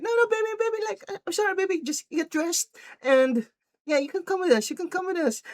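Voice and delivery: very high, frantic pleading; mock placating boyfriend. Boyfriend giving in to girlfriend, mock placating. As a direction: backpedal in a squeaky pleading voice.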